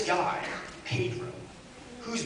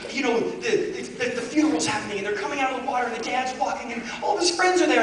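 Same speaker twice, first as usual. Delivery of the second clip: passionate; 3 semitones higher than usual. Retold or imitated. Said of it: "getting really passionate telling the story".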